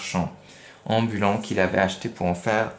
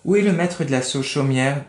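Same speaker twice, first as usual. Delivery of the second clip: astonished; 4 semitones higher, 3 dB louder than usual. Acted. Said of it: "dit Pinocchio étonné".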